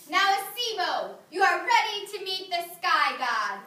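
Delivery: a hint of sly Anansi; mild storybook spider voice; lightly voiced Anansi.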